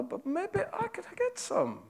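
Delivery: high, hushed and slow with GET leaned on; a lightly acted sly servant, savouring the thought; scheming servant. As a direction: let the greedy idea dawn slowly, almost to yourself. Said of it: "that's my attempt at drama".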